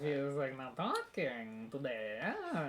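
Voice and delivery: hammy fake Italian accent; bad mock Italian accent. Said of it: "That's the worst Italian accent I've ever heard".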